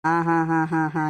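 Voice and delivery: low, drawn-out "ha ha ha"; mocking laugh. Grandfather to grandson threatening him in anger, low mocking laugh.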